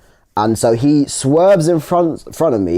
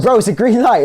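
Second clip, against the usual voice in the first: high, raised mock shout at the cyclist; retold shout; 9 semitones higher than usual. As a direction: yell it at him from the car, half-laughing. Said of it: "I'm shouting in my car".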